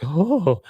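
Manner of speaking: high imitated "oh"; mock helpless little cry; smitten oh. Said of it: "He's like".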